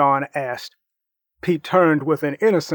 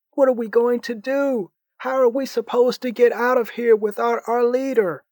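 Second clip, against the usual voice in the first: put-on higher, anguished teen voice; distraught Harry; 7 semitones higher than usual. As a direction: despair over the lost leader. Harry despairs over Marcus.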